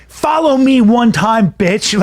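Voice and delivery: drawn-out, lightly acted taunt; cocky comic's dare. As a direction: imitate a killer comic daring a rival.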